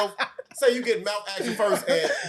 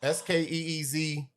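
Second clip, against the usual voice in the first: slow spelling out; 3 dB quieter than usual. Shown as a demonstration. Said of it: "So spell skeezer".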